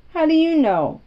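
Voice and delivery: high, loud contrary retort; a contrary girl challenges the boy's talk of dying; sharp challenge. Acted. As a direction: snap back, contrary. Mary challenges Colin's talk of dying.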